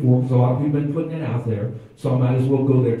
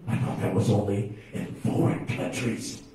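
mock naive churchgoer; 7 semitones lower, 7 dB quieter than usual. Mock congregant voice.

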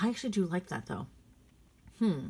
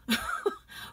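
short breathy burst of laughter; incredulous laugh. Real, not acted. Shopper mocking an ugly bag color, incredulous laugh. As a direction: laugh in disbelief.

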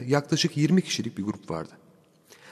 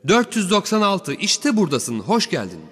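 put-on old man greeting; 7 semitones higher than usual. A narrator's reading. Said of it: "o hırıltılı yaşlı sesiyle".

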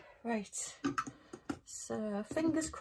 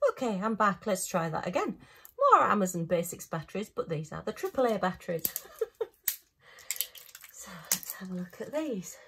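out of breath. Real, not acted. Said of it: "Sorry, I'm out of breath now".

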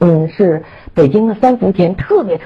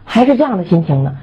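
higher-pitched protest at being faulted; indignant, unconvinced; 3 semitones higher than usual. Retold or imitated. Speaker retorting to the devotee who called them slack, indignant. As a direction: push back, offended at the criticism. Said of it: "我当时特别不以为然".

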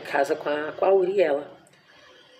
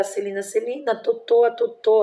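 higher and louder, calling out in panic; shouting in alarm; 5 semitones higher, 4 dB louder than usual. Retold or imitated. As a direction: shout for the family to come. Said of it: "E aí eu comecei a gritar". (gritando pela família, em pânico)

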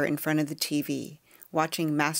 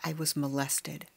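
quiet mumble, softer; mumbled; 6 dB quieter than usual. Acted. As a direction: mumble it out, barely audible. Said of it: "mumbled my response".

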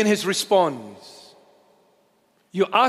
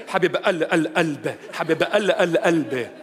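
playful, stuttered Lebanese endearment; Lebanese accent. Shown as a demonstration. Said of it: "how do you say that in Lebanese".

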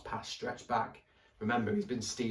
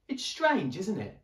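put-on much higher, lively little girl; girl's voice; 9 semitones higher, 5 dB louder than usual. A narrator's reading. Ellie wondering at the library, much higher girl voice. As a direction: marvel aloud like an excited child.

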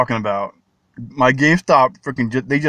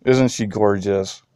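slow, lightly low voicing of the girlfriend; girlfriend's voice; 4 semitones lower, slower than usual. Imitating how the girlfriend talks about the dog, slow. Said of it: "That's how she talks".

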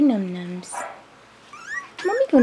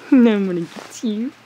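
laughing tease; 5 dB louder than usual. Real, not acted. Playing with baby animal.

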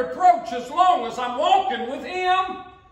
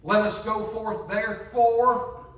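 slow, measured verse reading; solemn scripture read; 4 semitones lower, slower than usual. Shown as a demonstration. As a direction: read the verse slowly and deliberately. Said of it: "The Bible says this".

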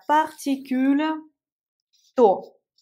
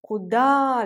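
Куда said ku-DA, the final A stressed; teacher demo, hit the last syllable of Куда; Куда with the accent on the final A. Shown as a demonstration. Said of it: "l'accent sur le A".

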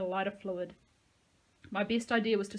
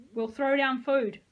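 loud, slower shout; 5 semitones higher, 8 dB louder, slower than usual. A narrator's reading. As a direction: offer it slowly and clearly. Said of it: "I shouted".

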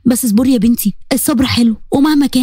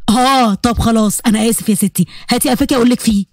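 put-on teasing young man; 3 semitones lower than usual. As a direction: drag it out, mock-sorry. Saif's teasing voice, lower and slow.

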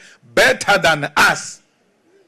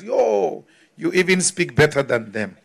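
mock patronizing praise; 2 semitones lower, 4 dB quieter than usual. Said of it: "patronize you".

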